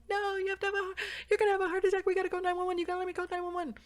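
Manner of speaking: high loud half-laughing plea; pleading shout. Retold or imitated. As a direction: beg him to let you call, voice cracking. Arguing with husband.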